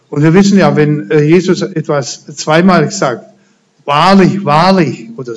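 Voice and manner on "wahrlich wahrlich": "Wahrlich, wahrlich" said twice, each falling and stressed; doubled emphasis. Shown as a demonstration. Preacher showing how Jesus stresses "Wahrlich, wahrlich". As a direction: lean on the repeated "Wahrlich". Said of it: "möchte er Betonung drauf legen".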